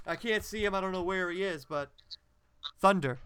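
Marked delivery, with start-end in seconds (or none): 2.8-3.2 louder spoken sound effect; deadpan, one-word sound effect; voice describing sounds. Pretend. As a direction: announce the thunder as a word. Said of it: "why is his voice just describing things".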